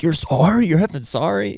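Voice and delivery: high, incredulous mock outrage; retold angry yell. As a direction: throw it back like an irate man, imitating. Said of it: "he's yelling at him".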